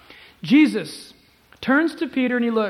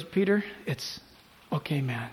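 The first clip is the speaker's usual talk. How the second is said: softer, lower, tender reassurance; hushed, forgiving aside; gentle reassurance; 5 semitones lower, 5 dB quieter than usual. Acted. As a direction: let the voice drop to comfort him. Voices Jesus reassuring Peter.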